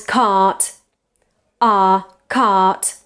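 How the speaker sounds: CART with a long back ah and no r; long back vowel. Shown as a demonstration. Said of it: "this vowel is a little bit longer".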